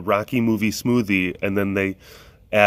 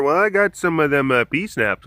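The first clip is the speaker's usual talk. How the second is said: lemur voice; 5 semitones higher, 4 dB louder than usual. Acted. Voicing foraging lemurs' chat.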